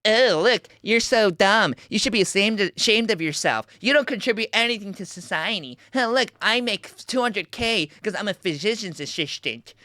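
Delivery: lightly sneering heckler; mock heckler voice. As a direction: mimic a smug heckler, barely changed. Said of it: "These hecklers who are like".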